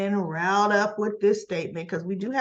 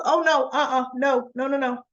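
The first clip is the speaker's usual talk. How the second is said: higher, emphatic string of noes; acted-out indignant refusal; retold flat-out refusal; 5 semitones higher, 3 dB louder than usual. Recapper voicing Cam refusing friendship, adamant.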